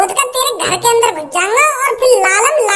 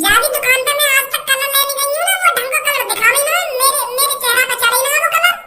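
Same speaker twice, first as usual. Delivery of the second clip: higher, put-on girl's voice; a girl complaining about colours, voiced higher; Kallo voice; 3 semitones higher than usual. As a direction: play the fussy girl Kallo, pitched up. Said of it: "और कल्लो".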